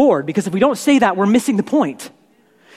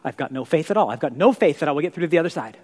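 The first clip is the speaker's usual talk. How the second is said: faithless despair; 4 semitones lower, 3 dB quieter, faster than usual. Retold or imitated. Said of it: "other people are walking through like".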